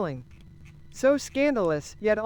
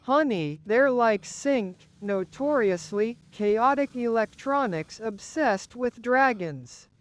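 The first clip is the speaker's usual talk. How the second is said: slow voice. Acted. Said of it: "took him forever to say because of the slow thing".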